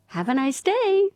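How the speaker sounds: hammed-up cheery American shop greeting; American accent. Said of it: "with an American accent".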